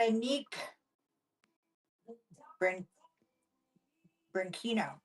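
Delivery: hammed-up Italian accent on "Veronique Branchino". Shown as a demonstration. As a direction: roll "Branchino" out like an Italian with a mouthful of pasta. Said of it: "You gotta say it with a mouthful of pasta".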